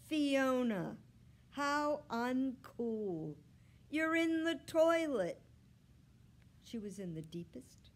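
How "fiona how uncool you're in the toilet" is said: put-on high, loud boy's exclamation; appalled, raised-pitch outcry; dismayed discovery. A narrator's reading. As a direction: exclaim at the cat's predicament. Boy finds cat in toilet.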